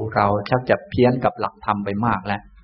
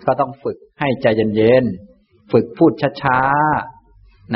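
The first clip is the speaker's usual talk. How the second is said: very slow, drawn-out words; slow speech; much slower than usual. Shown as a demonstration. Teacher advising a fast talker to slow down, very slowly. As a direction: stretch it out to show unhurried speaking. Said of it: "แก้การพูดเร็วก็ให้พูดช้าๆ".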